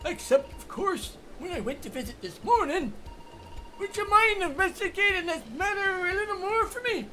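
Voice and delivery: lightly voiced old man; a hint of a worried old man; old grandpa voice. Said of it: "did you like the old grandpa voice".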